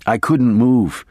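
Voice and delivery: usual speaking voice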